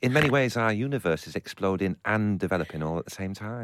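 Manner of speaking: Brian Cox impression. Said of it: "I sound like Brian Cox".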